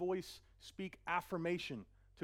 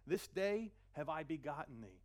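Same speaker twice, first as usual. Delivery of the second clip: slow, solemn scripture voice; lightly voiced solemn Father; voice of God; slower than usual. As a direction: savour each word. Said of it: "The Lord has said to me".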